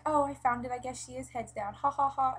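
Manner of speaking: high, loud, hammed-up laughing relief; mock laughing midwife. Mimicking the midwife who laughs off the scare, high and laughing. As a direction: imitate her laughing it off. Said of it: "and, like, laughs".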